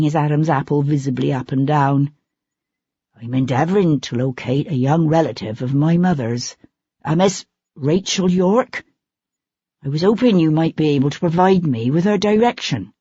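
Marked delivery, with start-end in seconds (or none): 3.2-12.9 lightly voiced timid visitor, careful and formal; a hint of a shy relative asking directions; humble, polite young man. Sebastian's humble voice held.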